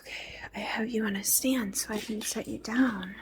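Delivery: through earbud mic; recorded through headphones; headphones used as mic. Real, not acted. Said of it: "recording through my headphones".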